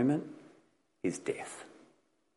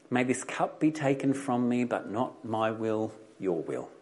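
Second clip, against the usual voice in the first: quietly voiced calm plea, sinking at the end; calm, solemn prayer; 4 dB quieter than usual. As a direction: recite the prayer calmly, with slight solemnity. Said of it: "Jesus says those words calmly".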